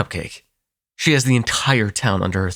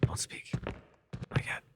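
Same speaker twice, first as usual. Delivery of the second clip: urgent whisper; 11 dB quieter than usual. Acted. Vampire hushing the hunter to keep pretending, whispered. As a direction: keep him still without a sound. Urging silence while the sire is near.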